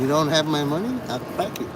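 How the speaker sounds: mock menace, dropping soft; Danson. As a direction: imitate a heavy shaking someone down. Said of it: "this is what Danson would do to you".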